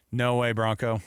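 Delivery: imitating a zero-effort scripted reply; Kyle. Host mocking the coach's half of a recorded spot, least effort. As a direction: toss it off like a reluctant ad read. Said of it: "least effort I've ever seen out of anybody".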